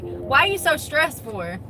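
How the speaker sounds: drawn-out, mildly mocking question; stretched-out imitation of a clueless question; mocking quote. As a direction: mimic someone asking it, slowly. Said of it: "then they'll be like".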